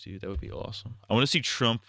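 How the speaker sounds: ordinary delivery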